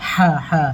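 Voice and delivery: হা said deep from the throat, breathy and rough; throaty ha. Shown as a demonstration. Teacher demonstrates the big ha from the throat. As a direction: push হা out from the back of the throat. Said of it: "second সাকি দিয়ে বেরোবে".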